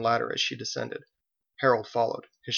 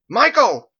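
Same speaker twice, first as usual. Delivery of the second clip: louder, higher second call; big high holler, falling at the end; frustrated shout; 12 semitones higher, 12 dB louder than usual. A narrator's reading. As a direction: yell the name harder, out of frustration. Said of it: "Out of frustration, she shouted".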